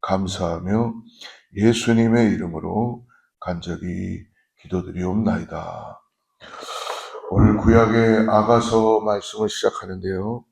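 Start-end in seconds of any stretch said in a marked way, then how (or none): 0.0-6.0 prayer. Real, not acted.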